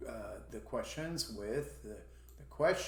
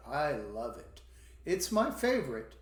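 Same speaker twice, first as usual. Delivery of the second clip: gushing favorite. Shown as a demonstration. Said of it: "if you say".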